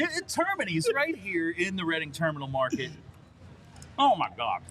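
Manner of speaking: talking with mouth full. Real, not acted. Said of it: "So I'm just gonna talk with my mouth full".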